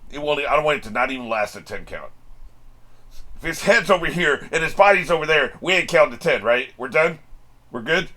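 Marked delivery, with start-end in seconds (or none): 3.4-8.1 excited. Real, not acted. Excited talk about beheading.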